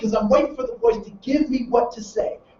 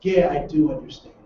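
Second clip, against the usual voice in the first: resigned exhale; 6 semitones lower, 3 dB quieter than usual. Retold or imitated. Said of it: "he exhales".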